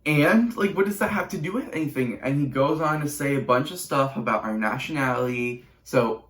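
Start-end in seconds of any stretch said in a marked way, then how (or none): 0.1-2.2 higher-pitched, exasperated comeback; indignant retort. Retold or imitated. Teen and mom answer the man's insult, indignant. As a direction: throw the question back, indignant.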